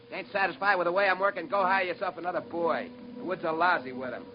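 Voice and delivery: defiant anger. Acted. Engineer defies the captain angrily.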